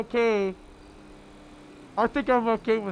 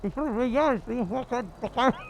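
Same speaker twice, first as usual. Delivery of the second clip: mock-aggressive Welsh voice; rough-tempered Welsh accent demo; 3 semitones higher than usual. Shown as a demonstration. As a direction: swear in a put-on Welsh accent. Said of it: "like, aggressive Welsh accent".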